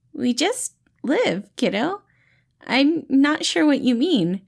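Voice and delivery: gently puzzled, not understanding; friendly, puzzled voice. Acted. Patton confused.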